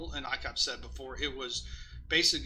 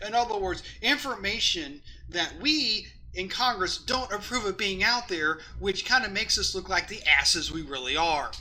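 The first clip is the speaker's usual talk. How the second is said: mock Congress voice; 3 semitones higher, 5 dB louder than usual. Voicing Congress mockingly.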